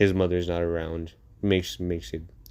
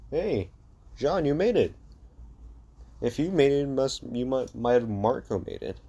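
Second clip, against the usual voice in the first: high, eager hello; excited greeting; 5 semitones higher than usual. Acted. Eren greeting Jean, high and eager. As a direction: call out to him like a friend who made it.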